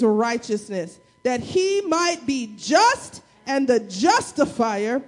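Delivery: read like we mad. Shown as a demonstration. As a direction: hammer each phrase like you mean it. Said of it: "read it like we mad".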